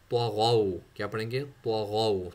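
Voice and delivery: त्वा गौ with a heavy त्वा and a thick गौ; heavy letters. Shown as a demonstration. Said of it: "त्वा एंड गैन मोटा पढ़ेंगे".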